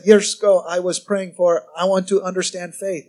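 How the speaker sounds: lightly imitated Korean accent; a hint of Korean-accented English; David Yonggi Cho. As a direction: attempt a Korean preacher's accent. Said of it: "He talked like this".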